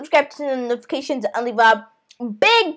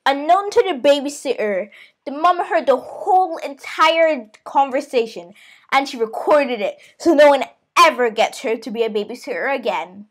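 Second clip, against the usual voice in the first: story narration. A narrator's reading. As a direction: narrate the twist in a lowered voice. Narrates the twist.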